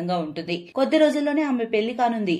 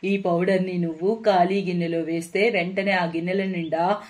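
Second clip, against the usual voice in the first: put-on sly old witch. Witch hands over magic powder.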